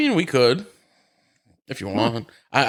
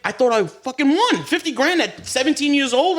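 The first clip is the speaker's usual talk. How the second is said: much higher, slow, incredulous; can you believe it, slowly; incredulous outburst; 11 semitones higher than usual. Real, not acted. Telling the hosts about the lost fifty grand, incredulous. Indignant retelling of the big loss.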